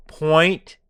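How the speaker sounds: Point, zero one percent, slow and pointed. Shown as a demonstration. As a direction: hammer it home slowly. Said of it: "How can I say it slower so it sinks in?".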